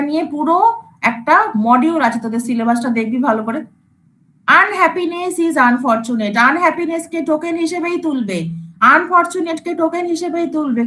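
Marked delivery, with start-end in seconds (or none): 4.5-6.3 very slow, word by word; slow dictation. Shown as a demonstration. Teacher dictating an example sentence, very slow. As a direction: read the example slowly for notes. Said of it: "example sentence read slowly".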